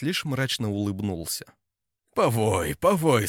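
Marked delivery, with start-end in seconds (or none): 2.1-2.8 louder gruff growl; grumbling taunt. A narrator's reading. Ingeld growls at the howling traitor. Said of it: "проворчал Энигельд". 2.8-3.3 higher, louder mocking growl; rising grim taunt. A narrator's reading. Ingeld's taunt rises as the traitor howls. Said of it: "проворчал Энигельд".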